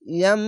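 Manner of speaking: "ইয়াম" ending in a long hummed m; held meem. Shown as a demonstration. Teacher showing how it is pronounced, m held. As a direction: close on the m of "ইয়াম" and sustain it. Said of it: "এভাবে উচ্চারণ হবে".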